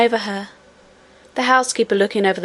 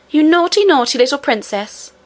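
louder, higher scolding nurse; scolding cry; 4 semitones higher, 3 dB louder than usual. Acted. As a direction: scold the naughty child sharply. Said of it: "cried Lootie".

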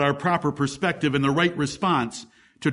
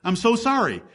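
mock pity; 4 semitones higher than usual. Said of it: "going around and saying".

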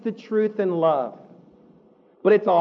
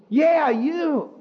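mock seductive reply; 6 semitones higher than usual. Flatterer answering the fool.

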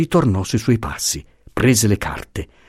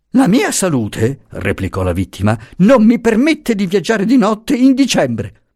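much higher, earnest pleading voice; anxious old professor; 11 semitones higher, 4 dB louder than usual. A narrator's reading. Professor urges the marchesa to read his documents, high anxious pleading. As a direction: press the papers on her nervously.

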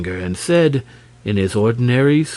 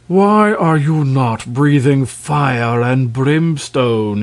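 slow, loud angry king; angry demand; 2 semitones higher, 4 dB louder, slower than usual. Acted. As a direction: demand it slowly and angrily. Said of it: "he demanded angrily".

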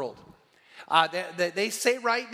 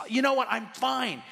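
lightly imitated excitement, pitched up; mildly excited quoted reassurance; happy, excited; 6 semitones higher than usual. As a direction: retell her cheerful announcement in a higher voice. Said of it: "and she's excited".

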